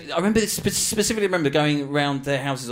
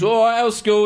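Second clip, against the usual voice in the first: louder, gruff greeting; blunt dad; 7 semitones higher, 7 dB louder than usual. Retold or imitated. Working class dad greeting the boys, loud and gruff. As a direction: bark it like a no-nonsense dad. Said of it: "he was".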